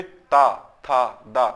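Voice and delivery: ता, था, दा with tongue on teeth; teacher repeating ता, था, दा off the upper teeth; dental consonant drill. Shown as a demonstration. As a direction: demonstrate ता, था, दा as dental sounds. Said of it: "दांत का प्रयोग हो रहा है ना".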